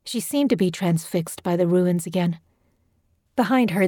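plain reading voice

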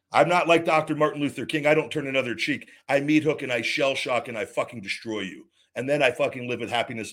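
real fury, spitting defiance at his enemies; angry rant. Real, not acted. Ranting on his show against the company that wronged him, angry.

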